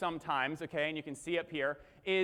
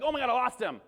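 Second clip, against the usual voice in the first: mild mock freak-out, pitched up; mock panic; 6 semitones higher, 4 dB louder than usual. Imitating viewers who lost the presenter, mock panic. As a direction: act out an attendee suddenly panicking.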